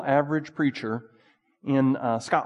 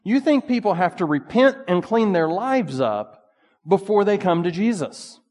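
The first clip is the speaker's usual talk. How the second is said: stern author rebuke; 5 semitones higher, 4 dB louder than usual. Retold or imitated. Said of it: "and basically said".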